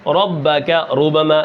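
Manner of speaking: slow ربک ربما with a full heavy ر. Shown as a demonstration. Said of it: "یہ را پر ہے". (پُر را کے ساتھ آہستہ تلاوت)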